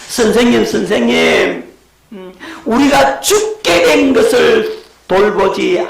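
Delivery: frightened disciple crying out for help; desperate plea. Acted. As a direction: beg the sleeping teacher to wake up. Disciples waking Jesus in fear.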